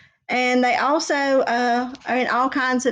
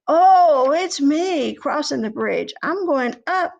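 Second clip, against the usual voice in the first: squeaky brother goat, less tiny; middle goat; 3 semitones higher than usual. Acted. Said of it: "second billy goat Gruff said".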